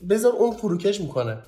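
high-pitched, worked-up pleading; exasperated urging. Real, not acted. Urging people to let an upset partner vent, exasperated. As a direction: push the advice out high, thoroughly exasperated. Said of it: "وای، حرصم در آوردن".

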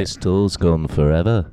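put-on weary English rock-star accent; tired tour talk in English accent. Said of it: "English accent".

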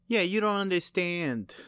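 stuffy nose voice; blocked nose. Real, not acted. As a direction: talk through a stuffy nose. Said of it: "No, I'm stuffy".

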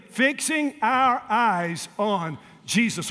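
Fixing drawn out slow, each word spaced; slow unison recitation. Shown as a demonstration. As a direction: chant it slowly together with the church. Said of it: "Let's say it together".

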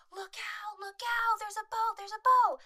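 high, panicked warning cries, imitated; mock screaming. Skier warns the driver of a boat ahead, mock screaming. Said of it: "she starts screaming".

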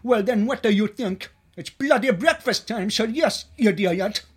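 loud, irritated waiter; rude impatience. Acted. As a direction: berate the customer for a stupid question. Rude waiter snaps at customer.

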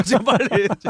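high, loud mock alarm; urgent shout. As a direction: call for help in mock panic. Urgent alarm over a listener.

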